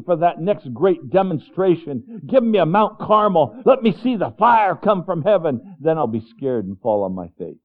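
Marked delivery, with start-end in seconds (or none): 2.3-7.6 demanding people. Acted.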